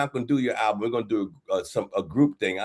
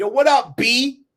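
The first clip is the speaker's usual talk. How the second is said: very high-pitched, very slow, drawn-out delivery; 12 semitones higher, 7 dB louder than usual. Retelling the greeting a rapper always used: imitating the rapper. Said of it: "Rob used to always say".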